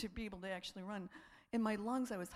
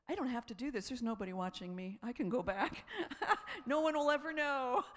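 laughing temptation; 2 semitones higher, 4 dB louder than usual. Retold or imitated.

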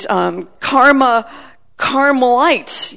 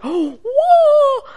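high gasping whoa, much higher; amazed gasp; 4 dB louder than usual. Retold or imitated. The girl hearing the word, gasping in high amazement. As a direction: let the whoa burst out on a gasp. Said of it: "Her eyes are just like".

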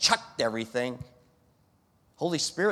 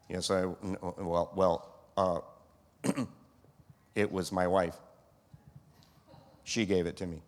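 stammering excuse; 7 semitones lower, 6 dB quieter than usual. Acted. Adam stammers excuses to God.

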